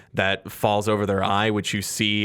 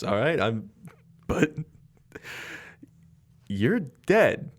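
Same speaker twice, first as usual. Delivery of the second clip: nervous Skid. Acted. GM plays Skid, nervous and placating.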